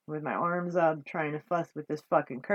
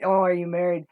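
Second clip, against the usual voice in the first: a louder mock of his question; mocking quote; 7 dB louder, faster than usual. Mimicking the flea-market flirt, louder mock. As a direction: throw his question back with disdain. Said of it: "hitting on me like".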